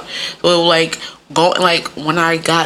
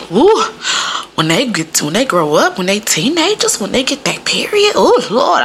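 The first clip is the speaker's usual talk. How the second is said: mother and aunt; 4 semitones higher than usual. Retold or imitated. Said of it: "overhearing my mother and my aunt talk".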